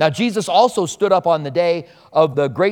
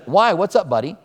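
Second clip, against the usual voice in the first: calm de-escalating. Retold or imitated. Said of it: "So you see in my tone, I'm trying to de-escalate this".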